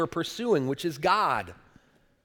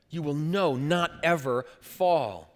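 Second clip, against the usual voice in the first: slow solemn repeat; slower than usual. Shown as a demonstration. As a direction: let "You will know not ever fall" sink in slowly. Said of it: "Peter's very emphatic".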